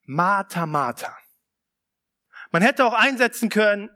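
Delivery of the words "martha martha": gentle address. Retold or imitated. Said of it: "sondern er sagt".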